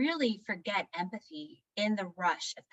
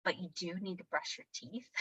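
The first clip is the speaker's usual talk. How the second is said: respectful, reassuring; 6 dB quieter than usual. Retold or imitated. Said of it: "I've started saying it that way".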